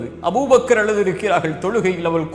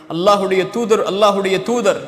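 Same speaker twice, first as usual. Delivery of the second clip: building fervent preaching; 3 semitones higher than usual. Acted. Preacher driving home to his listeners a swelling chant of belief. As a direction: pile the declarations on, climbing toward a peak. Preacher lists articles of faith.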